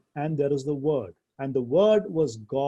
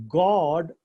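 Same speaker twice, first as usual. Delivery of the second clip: "God" said louder and set apart after a pause; stress on God; 3 semitones higher, 5 dB louder than usual. Shown as a demonstration. Teacher to class, showing Greek emphasis, God punched loud. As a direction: punch the single word "God". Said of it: "is given prominence there".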